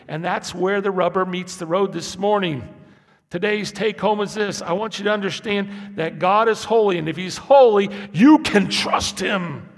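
loud, climbing preacher's cry; full-force preaching. Acted. Preacher pounding the point to the congregation, loud. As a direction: drive the take-home home to the church.

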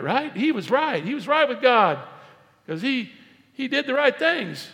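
high, loud, pleading protest; insistent objection. Acted. Doubter arguing with Jesus that Pharisee was right, high insistent protest.

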